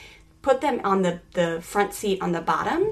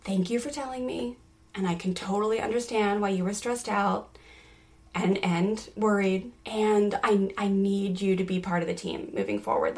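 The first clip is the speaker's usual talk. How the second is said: gentle teaching voice; 3 dB quieter than usual. Retold or imitated. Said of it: "the teaching mode".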